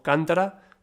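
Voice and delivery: cántara stressed on the opening CÁN; cántara, accent right at the front; stress on first syllable. Shown as a demonstration. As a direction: hit the first syllable of cántara, let the rest fall away. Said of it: "ya que permite distinguir palabras".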